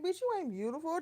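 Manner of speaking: imitating a challenge posed as a question; mock disbelieving question. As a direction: toss it back as a doubting question. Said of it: "Did you say that as a question".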